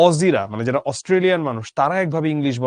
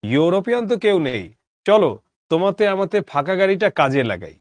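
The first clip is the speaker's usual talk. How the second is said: mildly blustering, a little raised; blustering declaration; 3 semitones higher than usual. Acted. Narrator to a fellow passenger about the empty carriage, mildly blustering. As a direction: announce it with a touch of bluster. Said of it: "গাঁক গাঁক করে বললুম".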